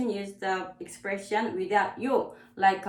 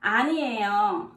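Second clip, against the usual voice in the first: fast model; faster than usual. Shown as a demonstration. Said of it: "the other expression is".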